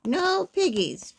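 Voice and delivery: high, drawn-out "no"; cow's answer. A narrator's reading. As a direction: stretch it like a moo. Cow answers in a moo.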